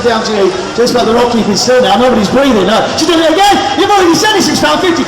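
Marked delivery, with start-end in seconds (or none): 3.0-5.1 calling from far away. Pretend. Calling across crowd.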